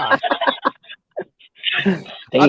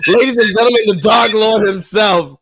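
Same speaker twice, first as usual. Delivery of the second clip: ring announcer; 3 semitones higher, 5 dB louder than usual. Acted. Introducing friend like ring announcer.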